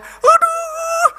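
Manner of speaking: very high, drawn-out wail; retold pained yell. Preacher re-enacting pain while watching his dogs, high wailing yell. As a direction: act out yelping in long pain. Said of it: "saya teriak".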